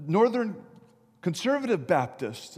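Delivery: half-acted called-out answer; mock yell down. Jumper answering down from bridge, mock yelling. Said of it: "the man yelled down".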